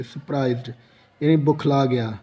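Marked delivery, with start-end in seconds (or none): 0.0-0.7 सरप्राइज्ड, the added d sound clearly spoken; surprised with final d. Shown as a demonstration. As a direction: say सरप्राइज्ड with a clear d at the end, not bare सरप्राइज. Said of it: "सरप्राइज नहीं पढ़ेंगे".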